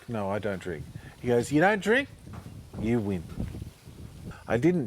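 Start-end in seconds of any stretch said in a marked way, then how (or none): 1.5-3.2 delight then pronounce it; perky Aussie party guy; cheery little bloke. Retold or imitated. Little guy's reply.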